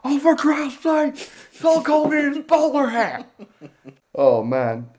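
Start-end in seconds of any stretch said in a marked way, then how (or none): 0.0-3.3 high, slow, squealed through laughter; laughing exclamation. Real, not acted. Podcaster losing it over the bowler hat, laughing exclamation. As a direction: cry it out, overcome with laughter.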